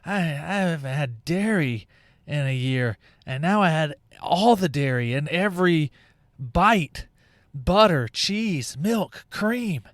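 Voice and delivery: rising whine listing the dairy; half-joking groan of someone who overate; playful self-mocking complaint; mock overstuffed moan. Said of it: "you're like".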